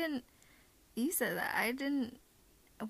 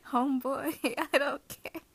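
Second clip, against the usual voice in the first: louder, laughing through it; laughing tease; 2 semitones higher, 3 dB louder than usual. Acted. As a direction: laugh it out, teasing. Teasing, louder laughing take.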